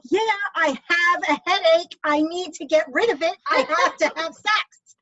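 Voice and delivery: hammed-up eager retort; mock urgent plea. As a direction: play it up like a desperate excuse. Her own retort acted.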